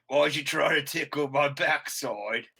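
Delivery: lightly voiced slow barbarian; a hint of a big, puzzled barbarian, drawn out; slow in-character barbarian question; Goliath barbarian. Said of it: "being a Goliath barbarian, I'm like".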